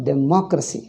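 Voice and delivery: "Democracy" stressed on "mo"; "Democracy", de-MO-cracy. Shown as a demonstration. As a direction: lean on the second syllable. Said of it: "the stress is on ma".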